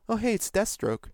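high mock recognition; mock surprise. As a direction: fake delighted surprise.

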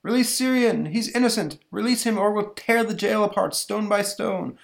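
high, loud protester's yell; strained, high-pitched rallying cry; angry mob demand. Acted. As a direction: shout demands as one of an angry crowd. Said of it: "a mob gathered outside".

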